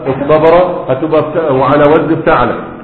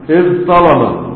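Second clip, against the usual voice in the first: slow demo; much slower than usual. Shown as a demonstration. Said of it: "هتنقلب إلى طاء".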